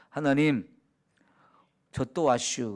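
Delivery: low, casual Chungcheong greeting in prayer; easygoing Chungcheong countryside speech; Chungcheong dialect. Retold or imitated. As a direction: talk to God in homely Chungcheong dialect. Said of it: "충청도 사투리로".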